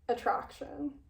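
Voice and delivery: breathy whisper on the word. Acted. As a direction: drop to a whisper for attraction. Whispers a risqué word in quote.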